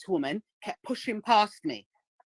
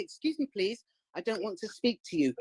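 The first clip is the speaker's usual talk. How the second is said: softer, politely asking; 5 dB quieter than usual. Shown as a demonstration. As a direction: ask gently, too nice to work. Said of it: "You can't be nice".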